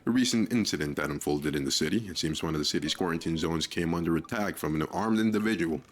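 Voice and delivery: formal news anchor delivery; news read. Acted. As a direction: announce it like a news bulletin. Reads game's news bulletin.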